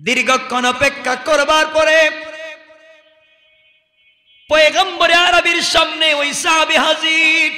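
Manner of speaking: high, ringing sermon delivery with long-held line ends; impassioned preaching. Acted. Preacher retelling the companions' rebuke to a crowd, impassioned. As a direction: project each phrase like a preacher to a crowd. Preacher narrates at full force.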